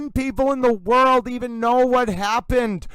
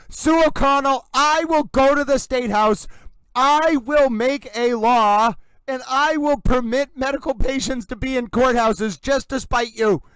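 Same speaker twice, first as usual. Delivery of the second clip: proud, pitched-up mock vow; defiant vow; 4 semitones higher, 3 dB louder than usual. Imagined reply to Sue, lightly mock defiant. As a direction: promise a law just to spite her. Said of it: "And I was like".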